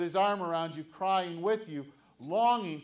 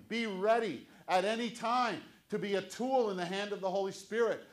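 louder, higher preaching refrain; fervent pulpit exhortation; preaching at full force; 3 semitones higher, 4 dB louder than usual. Acted. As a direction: drive home be ready like a call to arms. Preaching the children's sermon climax.

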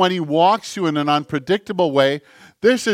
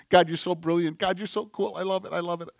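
softer voice, quietly delighted praise; hushed adoring prayer; 8 dB quieter, faster than usual. Acted. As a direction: murmur your love to God. Acting out his delighted prayer.

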